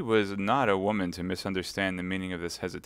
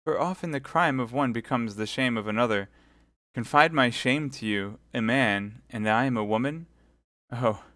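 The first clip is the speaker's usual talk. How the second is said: mildly shocked, slightly higher protest; modest shame; 4 semitones higher than usual. Acted. Milady, a woman before a man, modest protest. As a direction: recoil bashfully from the idea. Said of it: "cried milady with the blush of modesty".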